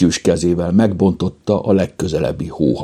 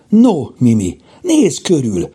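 lightly sing-song, higher coaxing; gentle urging; 8 semitones higher, 4 dB louder than usual. A narrator's reading. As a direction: coax gently in a raised voice. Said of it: "noszogatta szelíden Kajtánka".

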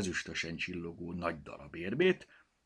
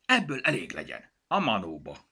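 higher, louder exasperated outburst; flaring up; 4 semitones higher, 5 dB louder than usual. A narrator's reading. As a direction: lose patience and cut him off. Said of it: "fortyant fel Petya".

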